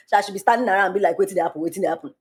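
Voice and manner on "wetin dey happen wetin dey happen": lightly voiced Nigerian Pidgin question. Nigerian bystander standing around asking, light Nigerian Pidgin. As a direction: slip into Nigerian Pidgin, mock curiosity. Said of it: "I'm Nigerian on top of it".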